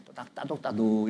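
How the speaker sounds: hushed, half-whispered patting words; gentle soothing. Shown as a demonstration. Preacher shows how to comfort members, softly soothing. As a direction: soften it as if patting someone gently.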